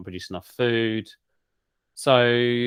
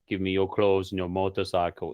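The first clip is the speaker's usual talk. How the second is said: a light mock Austrian accent, action-hero style. Naked hench guy demands clothes, in Austrian accent. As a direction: growl it like an Austrian movie robot. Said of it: "in an Austrian accent".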